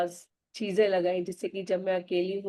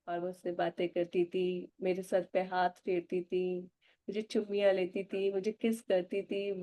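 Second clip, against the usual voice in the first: guided gratitude meditation; 3 dB quieter than usual. Acted. Speaking to her imagined mother in soft meditative thanks. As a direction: let each wow and thank-you melt out quietly.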